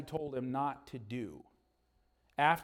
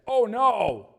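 loud, higher "Oh no!"; dismayed cry; 5 semitones higher, 9 dB louder than usual. Acted. Boys crying out as the eaglet falls, alarmed. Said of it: "Both boys said".

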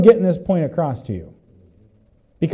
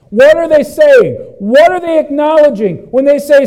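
high, loud rhetorical questions; impassioned preaching; 7 semitones higher, 6 dB louder than usual. Real, not acted. Preacher questioning the congregation, impassioned and loud. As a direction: preach it at full force.

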